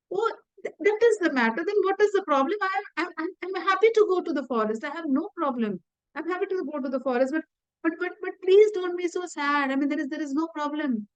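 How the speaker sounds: high, light, easy acceptance; cheerful young prince. Retold or imitated. Ram calmly accepts exile.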